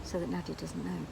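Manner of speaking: low, hushed secret whisper. Real, not acted. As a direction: hide it from Nadia. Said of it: "why we're whispering".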